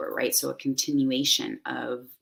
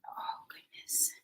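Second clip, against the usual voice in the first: breathy hushed oh goodness, much softer; whispered aside; 14 dB quieter, slower than usual. Real, not acted. Host settling in before the meditation, whispering. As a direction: whisper it to yourself, surprised.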